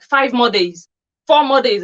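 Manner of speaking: mock countdown. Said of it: "she'll be like".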